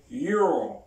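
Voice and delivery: You're clipped to one falling syllable; contracted you're. Shown as a demonstration. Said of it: "Repeat after me".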